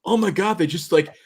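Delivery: wife's shocked exclamation, lightly hammed up; imitating wife. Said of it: "and she goes".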